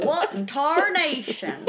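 hammed-up old prospector; old-timey prospector voice. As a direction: exclaim like a cranky old miner. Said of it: "pretending to be old-timey prospectors".

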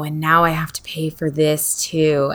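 hushed whisper of mock dread; dismayed whisper. Someone groaning about another bill, whispered. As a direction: breathe it out like bad news.

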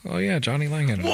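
hammed-up shout of surprise; mock excited. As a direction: play it like a big reveal. Mock surprise at listing album.

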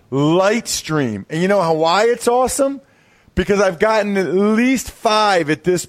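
upbeat sponsor read, brisk. Acted. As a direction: sell it like a podcast ad. Host reads sponsor ad.

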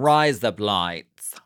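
"Rise up lights" in an Aussie accent, to sound like "razor blades"; Australian accent. Shown as a demonstration. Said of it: "sound exactly like Aussies saying razor blades".

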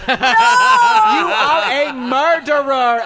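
slow, loud, high cry of murderer; drawn-out accusation. Retold or imitated. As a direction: stretch out the accusation. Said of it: "they go".

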